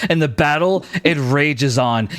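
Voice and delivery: vivid battle scene-setting, driving on; dramatic game master narration. Acted. Game master describing an arrow kill to the archer, dramatic narration.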